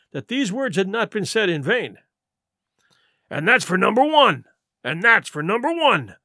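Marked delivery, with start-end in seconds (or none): 3.3-6.1 indignant pirate, voice lifted; vehement cry. A narrator's reading. Silver finishing his first answer to accusers, vehement. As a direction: drive the point home forcefully. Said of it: "cried the accused".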